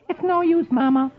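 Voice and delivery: put-on a little girl giving up; little Cookie. Cookie telling Mama it's no use, in a high child voice.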